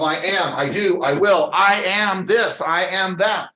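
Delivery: emphatic affirmations, each landed firmly; powerful, confident. Shown as a demonstration. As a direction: declare it with conviction, building in force. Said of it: "Speak with power, confidence".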